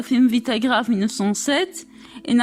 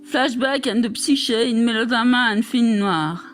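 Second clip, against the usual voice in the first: English titles in a strong French accent. Real, not acted. Reading English chapter titles from a French text, French accent. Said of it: "J'ai un accent terrible".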